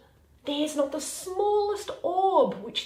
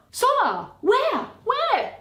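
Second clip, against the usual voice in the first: loud, high calls across the dark; hollering; 11 semitones higher, 6 dB louder, slower than usual. Acted. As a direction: bellow the name out to someone far off. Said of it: "Leave hollering".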